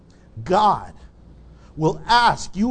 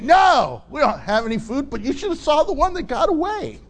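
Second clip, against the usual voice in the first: boastful fishermen; 3 semitones higher than usual. Retold or imitated. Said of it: "they're probably like".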